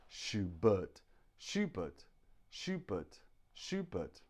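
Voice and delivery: Schubert said over and over, ending in a weak uh; Schubert drill. Shown as a demonstration. Teacher drilling the class on Schubert. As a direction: repeat Schubert with the schwa. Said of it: "the stress is on the but".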